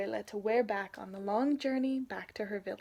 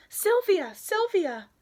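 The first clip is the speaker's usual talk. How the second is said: calling out; 9 semitones higher, 9 dB louder, slower than usual. Acted. Grandmother calls across the fence.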